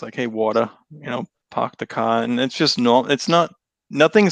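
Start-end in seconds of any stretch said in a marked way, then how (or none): 0.1-0.7 Boston accent. Shown as a demonstration. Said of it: "the Boston things". 1.5-2.2 Boston accent. Shown as a demonstration. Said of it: "the Boston things".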